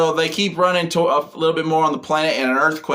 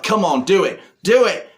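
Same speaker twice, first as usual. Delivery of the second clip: taunting yell; 5 semitones higher than usual. Retold or imitated. Villain goading Kimberly to shoot him, rising mock yell.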